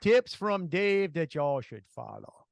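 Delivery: slow, drawn-out mock announcer voice; lightly hammed-up announcer giving tips; mock pompous announcer. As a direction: ham up a self-important radio host.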